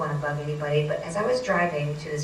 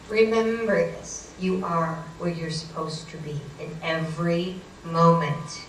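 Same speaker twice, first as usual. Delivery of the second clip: measured, weighty pronouncement; slow solemn advice. Retold or imitated. Psychic friend calming a frantic driver, slow solemn advice. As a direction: spell it out slowly as a lesson.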